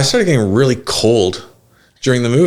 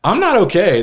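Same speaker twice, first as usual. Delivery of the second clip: pitiful whine; 10 semitones higher than usual. Retold or imitated. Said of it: "I'm like".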